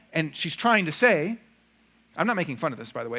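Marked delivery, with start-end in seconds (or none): none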